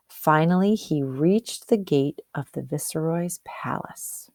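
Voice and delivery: storybook read-aloud for the class; story narration. Acted. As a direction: tell it like a picture book to children. Reading a picture book aloud.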